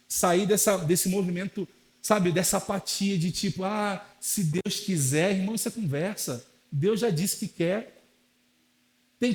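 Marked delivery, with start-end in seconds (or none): 3.6-5.4 slow, lazy shrug of a phrase; mock the passive believer; apathetic drawl. Pastor mocks passive believers with a slow, lazy tone.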